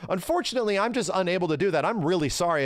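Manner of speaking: mock-polite refusal; AI assistant. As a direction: imitate an apologetic customer-service bot. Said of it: "having a conversation with a robot".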